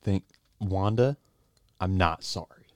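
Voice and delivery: low, soft, unrepentant; sullen resignation. Acted. Actor blames director to the maid, sullen and low. Sulking after the accident.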